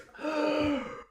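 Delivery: high, airy mock gasp; imitated dying gasp. Game master acts the burnt guy falling, mock gasp. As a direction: play the burnt man's last gasp. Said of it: "he just goes".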